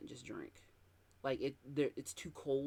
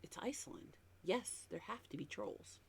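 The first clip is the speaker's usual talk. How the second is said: whispered aside; 7 semitones higher, 8 dB quieter than usual. Real, not acted. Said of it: "whispered aside".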